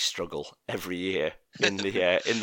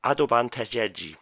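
Japanese accent. Shown as a demonstration. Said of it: "my best Japanese accent".

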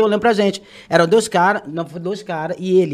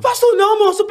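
high-pitched retold plea to the gunman; súplica assustada imitada; 13 semitones higher, 5 dB louder than usual. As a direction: beg him off in a high, louder voice. (súplica aflita e aguda, imitada)

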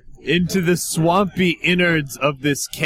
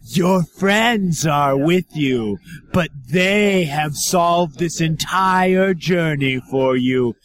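menacing monster voice. Acted. Monster berates Rudiger.

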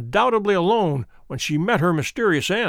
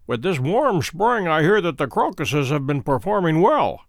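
imperturbable. Acted. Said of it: "continued my companion imperturbably".

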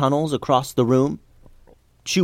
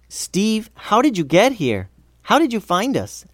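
amazed questioning; 8 semitones higher than usual. A narrator's reading. Tulsi questions her friend.

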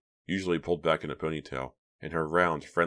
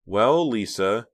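mock serious; 6 semitones higher, 7 dB louder than usual. A narrator's reading. Reva tricking Lisa, struggling to sound serious. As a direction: keep a straight face while tricking her. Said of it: "struggling to sound serious".

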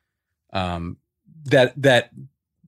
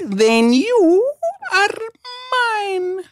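much higher, slow, louder hammed Russian villain voice; Malkovich's Russian accent; 5 dB louder, much slower than usual. Imitating Malkovich's Russian accent across the poker table. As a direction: stretch every word like a menacing Russian gangster. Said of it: "he goes".

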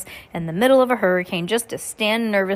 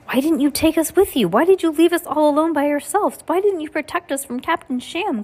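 higher and louder, pressing questions; boy confronts the guardian who abandoned them, louder and higher; upset accusation; 9 semitones higher, 4 dB louder than usual. A narrator's reading. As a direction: fire each question at her, upset.

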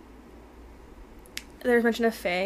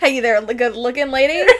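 put-on Transatlantic accent; 2 semitones higher, 8 dB louder than usual. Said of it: "transatlantic accent".

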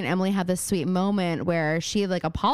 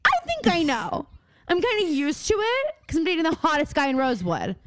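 put-on smug girlfriend voice; 4 semitones higher than usual. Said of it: "she's like".

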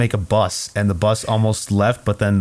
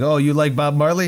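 put-on French Canadian accent; 5 semitones higher than usual. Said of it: "in his, like, weird, gross French Canadian accent".

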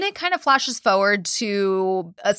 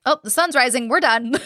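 raised, brisk announcement; mock abrupt relief; 4 semitones higher than usual. Dakota quitting at sunrise, retold with abrupt relief. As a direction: imitate a man calling time on the ordeal.

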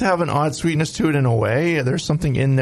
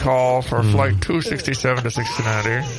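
airport announcement. Pretend. Mock final boarding call.

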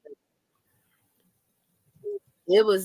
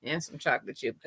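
fast; faster than usual. Real, not acted. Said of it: "I'm high on caffeine".

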